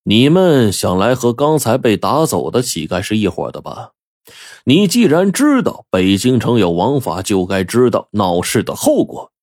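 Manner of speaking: cool, controlled questioning at ordinary volume; understated icy menace; cold. Acted. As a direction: warn them coldly. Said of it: "冷冷地说".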